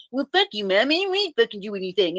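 high, whiny mock-child protest; upset crying kid. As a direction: mimic a tearful son talking back. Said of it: "he gets upset and he's crying".

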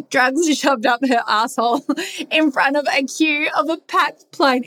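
giggling through the words; laughing. Real, not acted. Telling listeners about the sister prank, giggling.

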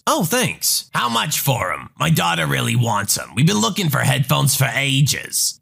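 lightly voiced pushy mom, wheedling; a hint of a demanding mother bargaining; entitled mother voice. Entitled mother haggling with the narrator, pushy.

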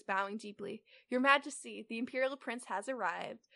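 even, measured read-aloud; story narration. A narrator's reading. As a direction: read the fanfic out steadily. Reads the fanfic aloud.

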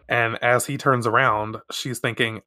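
usual speaking voice

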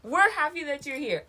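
said through laughter; laughing. Real, not acted. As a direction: laugh while repeating it. Repeats line laughing after friend's joke.

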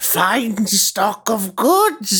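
merchant greeting. Pretend. The speaker does merchant role intro.

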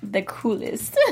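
low, soft, failed Irish lilt; a slip toward an unconvincing Irish accent; botched Irish accent. Real, not acted. Saying which accent sounds best, in a botched Irish accent.

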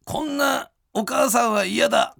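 Miura Mild impression. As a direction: announce the prompt like a Kansai comedian. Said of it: "あー、マイルドさんだ。".

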